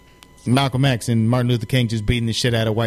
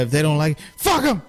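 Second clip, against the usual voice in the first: dad's pep talk; 2 semitones higher than usual. Retold or imitated. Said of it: "He's like".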